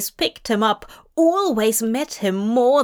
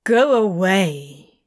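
slow, muffled from behind a door; muffled through door; 4 dB louder, slower than usual. Acted. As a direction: speak as if through a closed door. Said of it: "a muffled voice comes from the other side of the door".

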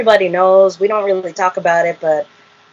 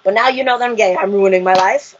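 getting angry; 2 semitones higher than usual. Retold or imitated. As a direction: argue back, mildly heated and pitched up. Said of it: "I started getting angry at him".

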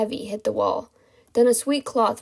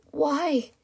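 higher-pitched, weak croaked question; croaked plea; 6 semitones higher than usual. Acted. Captive questions her kidnappers, weakly croaking. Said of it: "she croaked".

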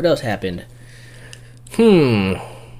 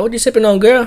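smooth flirty; 10 semitones higher than usual. Retold or imitated. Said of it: "I was like".

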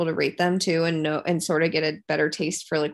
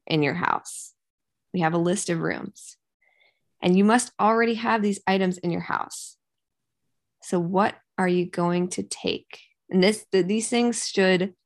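story narrator voice. Pretend. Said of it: "not, it's not spooky voice, but, you know".

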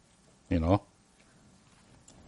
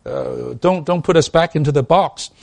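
mock protest; 4 semitones higher, 3 dB louder than usual. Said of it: "They say".

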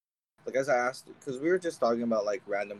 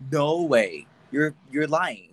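disbelief; 5 dB louder, much slower than usual. Retold or imitated. Retold disbelief at free gift.

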